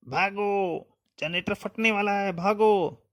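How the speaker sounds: very high, panicked acted yell; shouted warning. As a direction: scream a warning to those ahead to run. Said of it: "अरे, चिल्ला क्यों रहे हैं?".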